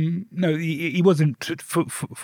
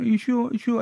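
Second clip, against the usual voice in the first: higher, lightly voiced doubtful question; ex asking; 7 semitones higher than usual. The ex checking he means it, lightly higher. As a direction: ask him twice, a bit higher. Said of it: "He went".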